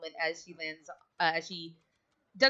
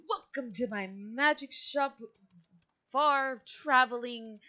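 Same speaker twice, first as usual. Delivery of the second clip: wizard shopkeeper; 6 semitones higher than usual. Acted. GM voices shop wizard.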